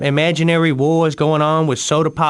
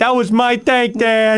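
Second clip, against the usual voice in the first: higher, slow, upset cry at the dad; tearful wail; 5 semitones higher, slower than usual. Acted. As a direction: plead through near-tears. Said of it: "compose yourself".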